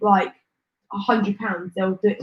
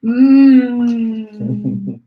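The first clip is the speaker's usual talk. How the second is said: bot grunt; 7 dB louder than usual. Pretend. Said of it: "Nightbot responding with".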